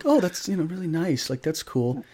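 fake nice. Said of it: "being the nice guy".

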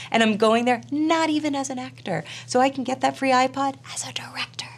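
high, mock-triumphant exclaiming; triumphant recollection. Telling of finally going to Sundance, triumphant.

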